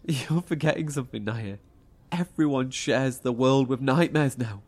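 a sharp rebuke that climbs; angry confrontation. Acted. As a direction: push back at her, getting heated. Confronting the cult leader.

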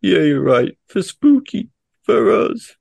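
rising to a high, loud battle cry; rallying cry. Acted. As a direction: lift it into a heroic rally. Rallying after mourning.

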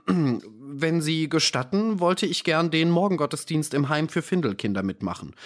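a devout servant answering politely, a touch stiff; prim servant voice. Acted.

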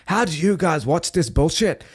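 quick Belfast accent on a mocking question; Irish accent. Podcaster imitating a Scottish guy from TikTok, in a Belfast accent. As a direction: toss it off like a scoffing Belfast lad. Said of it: "sorry, I did an Irish accent there".

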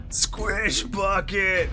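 slow, drawn-out monstrous roar; guttural monster bellow. Acted. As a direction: bellow it like a brute from the dark. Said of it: "You hear a guttural voice bellow".

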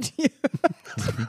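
slow words around a mouthful of soup; eating while talking. Real, not acted. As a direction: talk through a spoonful of soup. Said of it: "Ich esse grad noch eine Linsensuppe".

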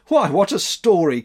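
put-on high, loud boyish exclamation; disbelieving cry. A narrator's reading. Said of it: "cried Max".

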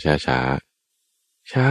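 very slow, stretched-out words; drawn-out slow. Shown as a demonstration. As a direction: drag each word out like a creeping beetle. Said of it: "เดินไปช้าๆ".

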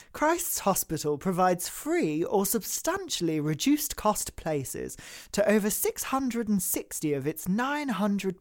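lightly put-on upper-class reading; posh voice. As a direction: read it like a smug private-school alum. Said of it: "harnessing my inner posh person".

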